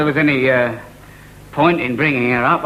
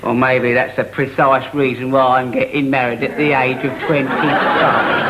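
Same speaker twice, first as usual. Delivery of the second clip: put-on blunt English working class accent, dropping the posh vowels; rebellious son using a working class accent to spite his posh father; 5 semitones lower than usual. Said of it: "working class accent".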